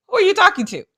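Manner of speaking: high, squeaky laughing question; mock the fan through a laugh; high-pitched laughing who are you talking to; laughing disbelief. Mocking the fan's gesture.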